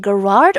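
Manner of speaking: Gerard said with a hard G; hard-G pronunciation. Shown as a demonstration. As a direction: open "Gerard" on a hard g sound. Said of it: "the pronunciation".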